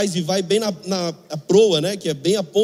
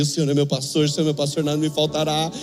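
1 prayer recitation. Acted. Recites Psalm 23 in the storm.

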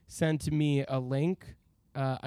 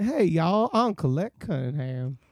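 bad Southern accent; slower than usual. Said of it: "I don't do a good Southern accent".

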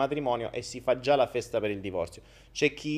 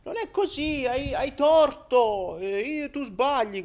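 mocking accuser; 11 semitones higher, slower than usual. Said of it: "Che dici".

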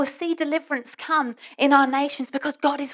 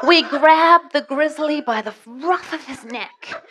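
put-on Canadian accent; 3 semitones higher, 5 dB louder than usual. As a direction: ham up a proud Canadian hunter, slowing down and getting bigger. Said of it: "I will now have to go into an accent".

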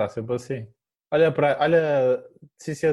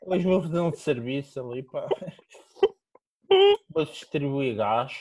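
workman voice. Retold or imitated. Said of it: "tens de falar assim".

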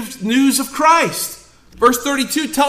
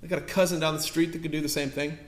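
dismissive shrug; 4 semitones lower, 11 dB quieter than usual. Retold or imitated. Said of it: "You're like".

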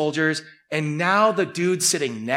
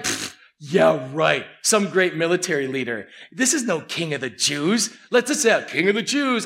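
mocking sneer. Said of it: "they're laughing and, like, giggling".

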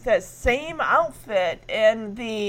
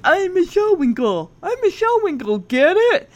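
Michelle; 6 semitones higher, 4 dB louder than usual. Retold or imitated. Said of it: "she goes over to them like".

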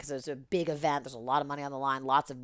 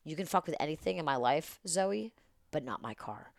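softer, measured imitation of a warning; quiet rebuke; 9 dB quieter than usual. Venue owner to the producer about his car, imitated quiet rebuke. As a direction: lay it down quietly, slowing at the end.

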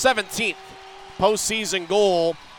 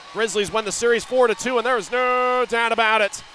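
victory call; 5 semitones higher, 3 dB louder than usual. Real, not acted. Series-winning countdown call.

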